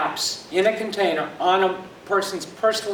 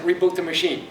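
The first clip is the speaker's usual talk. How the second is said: lightly mimicked Indian accent, flat; quick Indian accent imitation of support. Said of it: "in an Indian accent".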